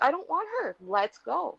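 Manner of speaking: high, pushy outburst, loud and quick; exasperated outburst. Retold or imitated. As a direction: push it out sharply, leave no room to argue. Telling grandma to leave mom.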